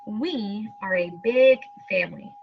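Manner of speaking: unhurried storybook reading, every word clear; reading to children. Acted. Teacher reading the family story to pupils, slow and clear. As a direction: read it out like a picture book for the class.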